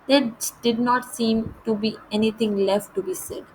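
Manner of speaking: measured, slow read-aloud of the English text; deliberate storybook narration; slow story reading. A narrator's reading. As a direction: read each phrase out slowly and clearly, like a lesson passage.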